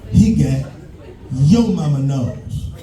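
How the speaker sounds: a mock protective mom snapping back; lightly voiced mother. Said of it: "She said".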